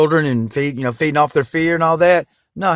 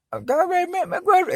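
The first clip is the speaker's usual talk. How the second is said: exasperated; 4 dB quieter than usual. Real, not acted. Exasperated aside.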